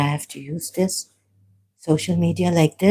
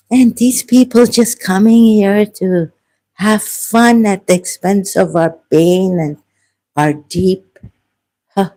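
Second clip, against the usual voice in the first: angry; 3 semitones higher, 5 dB louder than usual. Real, not acted. Angry rant at online trolls.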